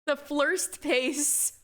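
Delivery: slow tongue-tied "The first pace."; tongue-tied slip. Real, not acted. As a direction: stumble slowly over "The first pace.". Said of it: "You're so bad at tongue twisters".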